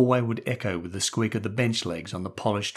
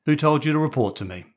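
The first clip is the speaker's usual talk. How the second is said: stern headmaster; 5 semitones higher, 4 dB louder, faster than usual. A narrator's reading. Headmaster interrogates boy.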